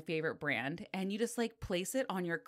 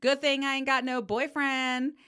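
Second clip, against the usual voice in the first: raised, louder retold outburst; loud blurt; 7 semitones higher, 5 dB louder than usual. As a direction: blurt it so the whole salon hears. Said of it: "it just came out loud as shit".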